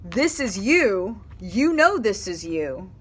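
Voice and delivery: slow, earnest, insistent; slow and sincere. Retold or imitated. Reader gives the true message to viewers: slow and sincere. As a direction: lean in and let "This is you" land. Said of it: "The message is".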